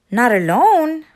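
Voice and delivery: a goose caught off guard; honking goose. Acted. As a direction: honk it out like a startled goose. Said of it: "honked Goose".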